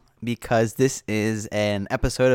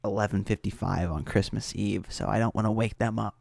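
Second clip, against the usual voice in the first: quiet at night; 2 semitones lower, 5 dB quieter than usual. Real, not acted. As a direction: speak softly, late at night. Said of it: "I should be a little bit quieter".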